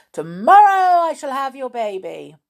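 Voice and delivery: high, loud gloating threat; shouting creature. A narrator's reading. Creature threatening to take the baby, shouting. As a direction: cry it out high at the queen. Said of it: "shouted the little creature".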